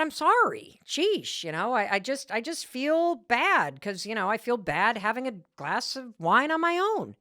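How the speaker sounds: backpedal, a bit embarrassed; wife excusing herself to her husband; defensive apology. Retold or imitated. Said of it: "And then I said".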